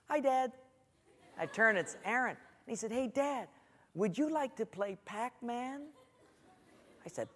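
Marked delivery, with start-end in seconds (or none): 0.1-0.5 put-on high, sing-out little boy greeting; cheery child. Four-year-old son greeting his dad, imitated cheery voice. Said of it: "I hear this cheery voice behind me". 2.9-5.9 put-on soft, high little boy's voice; cheery child. Four-year-old asking dad to play, imitated cheery voice. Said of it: "I hear this cheery voice".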